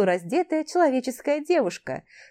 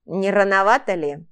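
grumbling gnome; 5 dB louder than usual. Acted. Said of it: "пробухтел Элфи".

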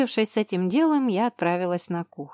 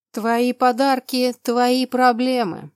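snarling smugly; 5 semitones higher, 6 dB louder, slower than usual. A narrator's reading. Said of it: "оскалился его величество".

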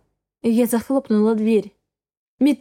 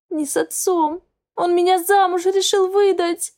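higher, tearful and rushed out; sobbing; 7 semitones higher than usual. A narrator's reading. Girl sobbing to her boyfriend about the forced marriage, higher. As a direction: blurt it out through sobs. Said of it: "Я снова всхлипнула".

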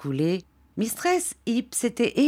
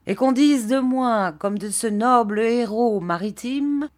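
lightly voiced grandiloquent Micawber, a bit raised; pompous letter reader; 3 semitones higher than usual. Micawber reading his letter to the room, lightly pompous. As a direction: read the letter with mild flowery self-importance.

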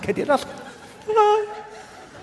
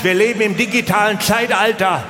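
ranting; 3 semitones higher than usual. Real, not acted. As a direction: hammer the point home to the audience. Ranting at the crowd.

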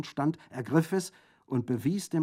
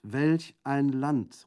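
slow, loud, higher exclamation; crying out; 4 semitones higher, 7 dB louder, much slower than usual. A narrator's reading. Prefect jumping up in exasperation, crying out. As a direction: burst out, stretching each word. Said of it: "rief endlich aufspringend der Präfekt".

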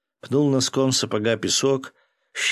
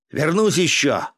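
ordinary delivery

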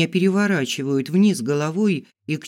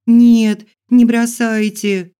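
high piercing scream; 8 semitones higher, 11 dB louder, slower than usual. Acted. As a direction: shriek it, begging. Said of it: "кричу я".

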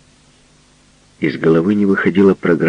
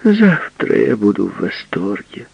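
mock prim tone; 8 semitones higher than usual. Continues affected mocking reply.

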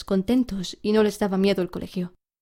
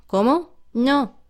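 higher, louder shocked teacher; outraged disbelief; 5 semitones higher, 4 dB louder, much slower than usual. A narrator's reading. Teacher hears a pupil refuse him, outraged disbelief. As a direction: react as if you misheard the defiance.

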